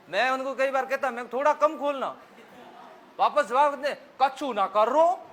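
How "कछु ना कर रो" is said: louder and slow, each word stretched; booming Bharatpur-style reply; loud open-mouthed reply. Shown as a demonstration. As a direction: bellow the answer back. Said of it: "कितना जोर से बोलेंगे".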